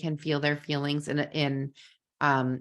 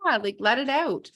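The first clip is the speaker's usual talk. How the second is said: mild scream demo; 6 semitones higher than usual. Shown as a demonstration.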